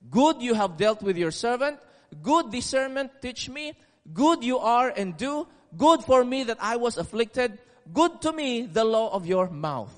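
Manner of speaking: each opening "Good" punched, the rest read on evenly; stress on Good. Shown as a demonstration. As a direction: lean on "Good" at the start of each verse. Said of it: "the incredible emphasis on the word".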